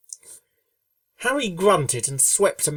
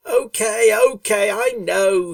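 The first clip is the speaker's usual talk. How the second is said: louder, higher, a bit flustered; defensive Rainbow; 7 semitones higher, 8 dB louder, slower than usual. A narrator's reading. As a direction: brush it off nervously.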